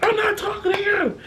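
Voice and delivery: put-on high put-down to a child; condescending. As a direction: dismiss the kid sweetly.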